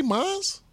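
mines with a final S; added S. Shown as a demonstration. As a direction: draw out mines, S sounded. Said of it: "adding the S on shit".

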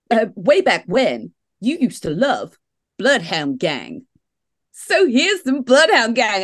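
drawn-out mock New York DJ; New York accent. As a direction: announce it like a New York radio DJ. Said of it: "They went".

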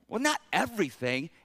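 "everything" questioned with a rising end; unsure, qualifying "not everything"; hedging doubt. Acted. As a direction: tentatively push back on "everything". Acts doubt about Paul's extreme word.

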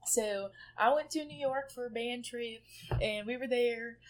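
lightly done southern accent; casual southern-accented storytelling. Shown as a demonstration. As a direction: tell it in a mild southern accent. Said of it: "I'll talk in my southern accent about it".

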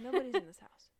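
emphatic loud insistence. Real, not acted. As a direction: insist loudly, a bit mock. Insists after laugh.

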